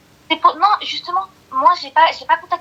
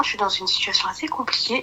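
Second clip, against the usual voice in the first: whispered, almost no voice; real whisper to the host; 6 dB quieter than usual. Real, not acted. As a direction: keep it hushed and private. Caller speaking low on stream.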